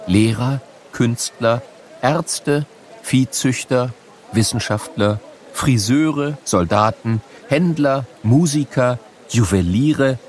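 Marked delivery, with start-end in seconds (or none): none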